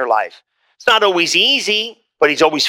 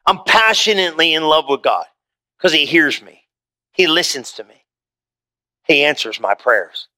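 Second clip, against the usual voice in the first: tender restatement; 5 semitones lower than usual. Shown as a demonstration. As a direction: savour each phrase as if it were your own confession. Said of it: "That's what the psalmist David said".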